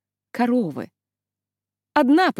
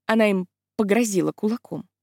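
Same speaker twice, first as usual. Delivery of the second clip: ordinary delivery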